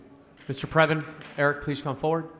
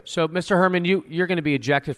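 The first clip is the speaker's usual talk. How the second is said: loud stern; 5 semitones higher, 7 dB louder than usual. Real, not acted. Chair raises voice to eject him.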